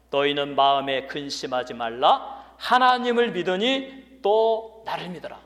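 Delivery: slow, weighty delivery, climbing on "하나님을 믿으니"; emphatic. Real, not acted. Preacher stresses the verse again, emphatic rise on "하나님을". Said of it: "다시 한번 여러분에게 이 강조합니다".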